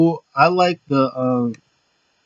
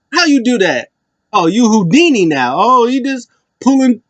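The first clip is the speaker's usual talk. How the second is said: amazed, high swooping mock disbelief; oh-you-tricked-me astonishment, pitched way up; R-Truth; 9 semitones higher, 4 dB louder than usual. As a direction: play it up as dumbfounded, voice leaping high. Acting out R-Truth's amazed reaction.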